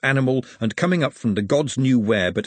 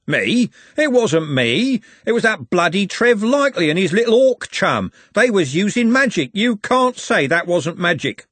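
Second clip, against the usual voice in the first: high, loud protest; loud indignant denial; 8 semitones higher, 4 dB louder than usual. Acted. Andy blaming Trev for the magic, loud indignant protest.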